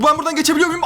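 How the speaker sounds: ordinary delivery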